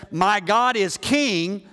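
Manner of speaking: very slow, rising on king; slow rising proclamation. Shown as a demonstration. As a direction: stretch it out like a banner. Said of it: "His name says".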